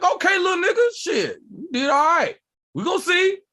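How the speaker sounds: high, hammed-up surprised concession; grudging approval. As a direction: play the uncle begrudgingly impressed. Acts host's grudging, surprised approval.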